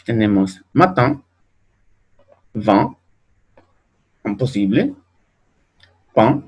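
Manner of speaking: matin, vin, pain with nasal ɛ̃; French nasal in words. Shown as a demonstration. Teacher to class, modelling French nasal in. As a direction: nasalise the in and ain.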